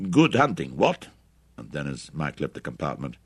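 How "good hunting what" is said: mock-British farewell, high and loud; jaunty parody of a British accent; exaggerated British accent. A narrator's reading. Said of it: "Wally exaggerated Mike's accent".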